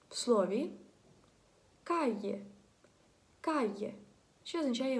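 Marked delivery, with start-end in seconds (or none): 1.8-3.9 "кає" with a y glide in the middle; double l as y. Shown as a demonstration. Teacher giving an example word, y for double l. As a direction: model "кає" with y, no l sound. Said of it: "буде читатися як «й»".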